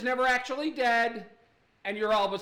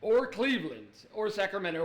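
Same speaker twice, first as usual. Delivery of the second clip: show narrator. Acted. Mocking a reality show's intro for the audience, light narrator impression. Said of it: "the narrator is like".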